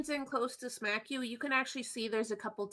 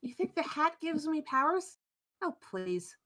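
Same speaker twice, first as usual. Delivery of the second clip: mildly scornful in character, higher then dropping away; scoffing dismissal; 4 semitones higher than usual. Acted. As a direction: lightly play a witch brushing off a silly idea. Wisp scoffs at the player's accusation.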